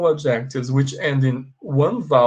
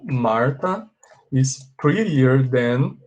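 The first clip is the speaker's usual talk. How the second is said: slow model sentence; slower than usual. Shown as a demonstration. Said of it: "Can you see what happened here".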